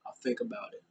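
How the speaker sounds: high, quiet, dry mock reply; sarcastic. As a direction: pitch it way up and make it sound like you don't mean it. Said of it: "he sarcastically was like".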